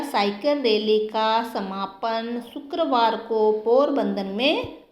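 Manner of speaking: slow, word by word; slow dictation. Shown as a demonstration. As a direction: dictate it slowly to students. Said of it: "तो यहाँ क्या आएगा?".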